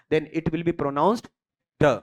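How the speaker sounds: very slow, word by word dictation. Shown as a demonstration. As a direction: spell the rule out slowly for notes. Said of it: "you have to follow three conditions".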